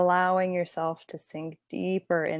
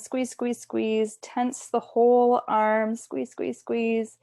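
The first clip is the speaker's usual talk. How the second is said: higher-pitched, rhythmic urging; gently insistent repeated cue, pitched up; urging tension; 4 semitones higher, slower than usual. Shown as a demonstration. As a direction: coach them to hold the squeeze. Coaching muscle tensing before release.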